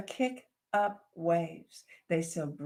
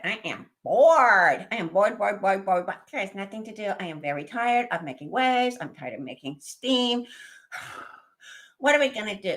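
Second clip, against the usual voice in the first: put-on bored baby dragon; 5 dB louder than usual. Baby dragon complaining to siblings, whiny. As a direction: whine like a bored child dragon.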